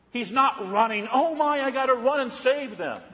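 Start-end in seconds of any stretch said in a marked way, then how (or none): 1.1-3.0 mock panic. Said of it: "He's not panicked".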